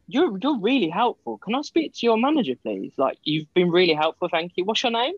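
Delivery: butter them up, pitched well up; fake sweet politeness. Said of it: "what you need to do is go".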